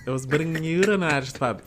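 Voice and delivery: comic put-on Irish; Irish accent. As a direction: replay the Irish guy's challenge for laughs. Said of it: "the Irish guy is like".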